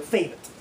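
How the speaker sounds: "favorite" cut to two syllables; syllable dropped. Shown as a demonstration. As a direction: skip the middle of "favorite". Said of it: "don't use all three syllables".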